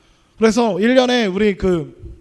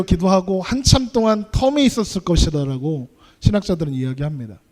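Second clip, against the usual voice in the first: normal talking voice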